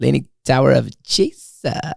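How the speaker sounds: clumsy, lame, bad surfer dude voice. Asked to say it one more time, repeat the line in a bad Pauly Shore impression. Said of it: "Say it one more time".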